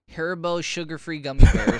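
bursting into laughter; laughing. Real, not acted. Reading title, laughing.

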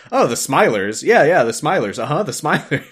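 lightly voiced knowing doctor, bouncy falls; doctor knowingly casual. Host imitating the doctor suddenly naming the creatures, breezily knowing. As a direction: play it as breezy, repeated acknowledgement. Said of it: "the doctor's just like".

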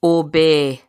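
low, measured one-word order; spoken command. Acted. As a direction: cast a command spell on a creature. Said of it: "a one-word command".

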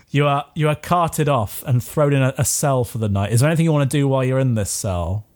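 normal talking voice

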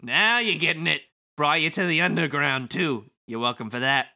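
breezy, mocking wiseguy; sly villain Kubo. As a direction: thank them with smug false gratitude. Plays Kubo reading game script.

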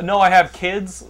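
slow, loud pleading for mercy; mock pleading. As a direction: beg like a victim. Mock victim pleading for life.

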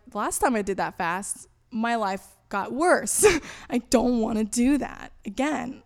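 acting out frustration with emphatic, stretched words; retold frustration. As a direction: drag out the protest, exasperated. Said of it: "I was so frustrated".

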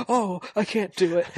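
high, hammed-up pained cry; mock hurt whine. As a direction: fake the injury loudly. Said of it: "he's like".

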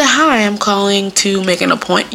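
lightly put-on polite caller; code-switch into a proper caller; mildly formal appointment-making voice; phone-appointment voice. Shown as a demonstration. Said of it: "why do I have to do that voice".

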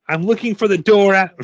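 put-on high, loud, insistent child; high-pitched, emphatic kid character; little girl. A narrator's reading. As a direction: push it out in a girlish pitch. Voicing the girl, first take.

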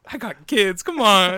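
high, loud mock-desperate plea; exasperated yell. Wrestler dad at McDonald's to the cashier, exasperated yell. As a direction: yell it like a hard-done-by dad, hammed up.

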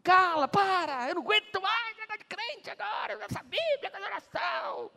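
high, loud, fed-up shout against believers; annoyed scoffer. Acted. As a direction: snap at the praying believer to stop. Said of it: "o diabo vai mandar alguém".

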